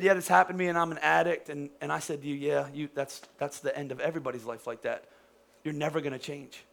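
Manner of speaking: low, soft, resigned put-down; mock awful sermon. Preacher mimicking a hopeless sermon to an addict, discouraging. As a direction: give up on them, quietly and low. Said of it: "What an awful sermon that would be".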